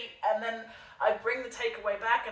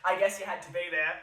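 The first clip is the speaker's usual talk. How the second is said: laughing. Real, not acted. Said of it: "I'm just laughing".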